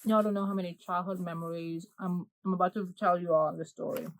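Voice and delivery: talking through a mouthful; words round a bite of fudge; chewing noisily. Real, not acted. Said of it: "excuse me eating while I'm talking".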